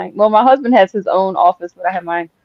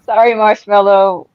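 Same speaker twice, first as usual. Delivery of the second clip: louder, through a laugh; 2 semitones higher, 6 dB louder than usual. Acted. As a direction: giggle through the apology. Apology repeated while laughing.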